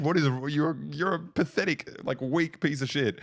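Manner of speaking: hammed-up grandmother berating the inspector; grandma ranting. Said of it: "my grandma was like".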